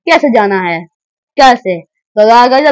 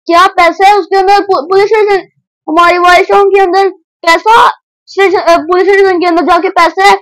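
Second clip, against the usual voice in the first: a pitched-up buddy, doubtful and curious; higher friend character voice; 5 semitones higher than usual. Acted. Sidekick asks the hero about police station money, in a higher voice. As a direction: ask it in a higher, surprised sidekick voice.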